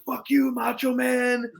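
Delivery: sneering at the fan by the entrance; mock insult. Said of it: "Matt Cardona at one point is like".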